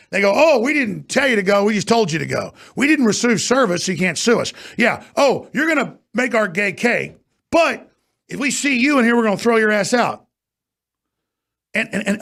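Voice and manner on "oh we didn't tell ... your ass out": higher-pitched, scornful imitation; mocking retold excuse. Host imitating restaurant staff who threw her out, mocking self-justification. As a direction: act out their excuse in a raised mock voice.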